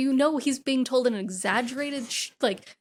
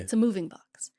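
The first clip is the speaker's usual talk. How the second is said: whisper; 3 semitones lower than usual. Retold or imitated. Spooky retelling of the box.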